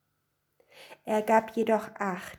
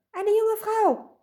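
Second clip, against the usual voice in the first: very high, loud, drawn-out; slow high-pitched squabbling; shrieked claim; 14 semitones higher, 5 dB louder, slower than usual. A narrator's reading. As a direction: wail it insistently as the wife. Wife insists in the quarrel.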